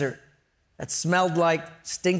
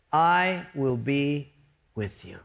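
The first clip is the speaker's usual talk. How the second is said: God's calm reassurance; 3 semitones lower, slower than usual. Acted. God answering Moses's doubts, slow calm assurance. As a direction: reassure with weight, word by word.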